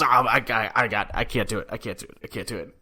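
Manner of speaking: stammering, hurried retold panic; mock freak-out. Imitating Biz as seconds run out, freaking out. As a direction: imitate someone flustered, repeating it as the voice drops away. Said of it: "starts to freak out and starts to speed up".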